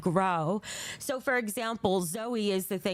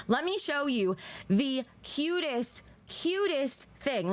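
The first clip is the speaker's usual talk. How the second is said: gushing over cuteness; 4 semitones higher, slower than usual. Real, not acted. Gushing over cute gift.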